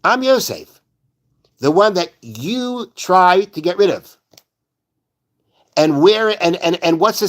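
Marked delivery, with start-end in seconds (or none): 0.0-4.2 talking tough. Retold or imitated. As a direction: lay it on them without softening. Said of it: "he's talking tough to them".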